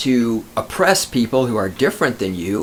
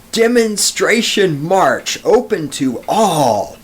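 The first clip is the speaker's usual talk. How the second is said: all caps announcement; 3 semitones higher, slower than usual. Shown as a demonstration. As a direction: read it like it's in all capital letters. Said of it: "is in all capital letters".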